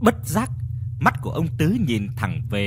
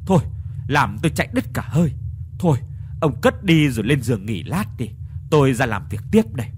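weary complaining. Acted. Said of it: "giọng điệu phàn nàn chán nản".

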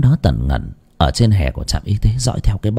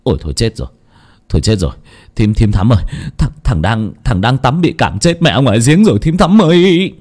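alarmed cry. Acted. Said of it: "mà kêu lên".

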